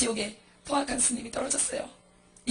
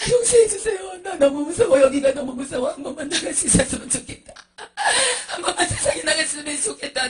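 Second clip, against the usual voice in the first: terrified pleading; 3 semitones higher, 6 dB louder than usual. Acted. Children in the fiery kiln begging for forgiveness, terrified pleading. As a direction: beg through sobs like a trapped child.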